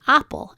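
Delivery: "apple" as AP-ple; full vowel, stressed, at the start of "apple"; first-syllable stress. Shown as a demonstration. Teacher lets students hear stress difference, first syllable stressed. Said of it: "You can hear this stress difference".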